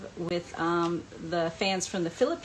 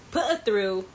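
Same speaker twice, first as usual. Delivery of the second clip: louder mock Cockney assistant; British accent; 2 semitones higher, 5 dB louder than usual. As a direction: imitate a Cockney assistant putting a call through. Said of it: "he'd answer in a British accent".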